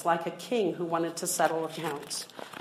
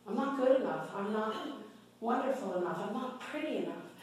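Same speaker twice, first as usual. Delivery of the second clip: self-critical voice; 2 semitones higher, 6 dB quieter than usual. Retold or imitated. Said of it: "called myself trash".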